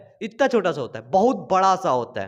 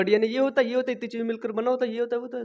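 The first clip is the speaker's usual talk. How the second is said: rushed lecture; 5 dB quieter, much faster than usual. Retold or imitated. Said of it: "मुझे lecture देना हो तो मैं दे दूंगा".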